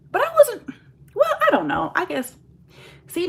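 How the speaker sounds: fighting back tears, losing the words; real tearful catch; close to tears. Real, not acted. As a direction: voice cracking up high in real tears. Breaks down recalling hurt.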